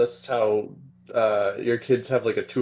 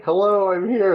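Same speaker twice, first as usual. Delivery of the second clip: chirpy mock greeting; 8 semitones higher, 5 dB louder than usual. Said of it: "my sister-in-law would've been like".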